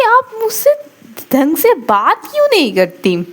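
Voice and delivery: high, whiny plea in a lightly voiced student; student begging her teacher to talk properly, high and whiny; pleading student. Student Anu pleads with teacher Avni, high whiny voice.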